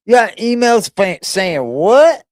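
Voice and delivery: high-pitched, rising disbelief; incredulous question. Real, not acted. Streamer questions the email claim, incredulous. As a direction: ask it like you misheard something outrageous.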